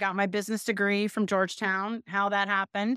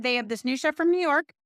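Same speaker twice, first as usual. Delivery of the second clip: livelier retelling; 6 semitones higher than usual. Retold or imitated. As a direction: sell the news about the new chef. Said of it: "They said".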